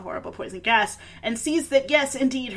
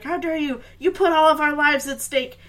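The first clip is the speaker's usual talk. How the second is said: higher-pitched imitation of a cross old badger; mock angry scolding; 5 semitones higher, 5 dB louder than usual. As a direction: scold the kids in mock indignation. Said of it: "just get mad at them".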